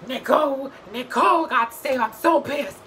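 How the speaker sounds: high, loud whiny mock of Paul. Mocking Paul, griping about Nicole's win. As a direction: whine it out like a sore loser. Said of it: "Paul is like".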